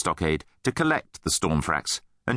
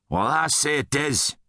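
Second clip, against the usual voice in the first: mild snarl, pitched up; 6 semitones higher than usual. A narrator's reading. Rudd stands up to the guard, snarling defiance. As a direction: snarl back at the bully. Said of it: "snarled Rudd".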